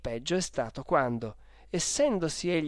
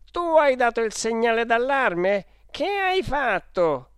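high, loud, outraged questioning; shouting; 8 semitones higher, 7 dB louder than usual. Acted. Clodoveo confronting the boy over the alarm, shouting. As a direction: scold the boy at full voice. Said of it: "gridò il signor Clodoveo".

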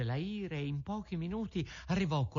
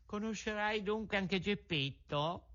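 pigeon calling down; 8 semitones higher than usual. A narrator's reading. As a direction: call down gently from the sky. Pigeon asks.

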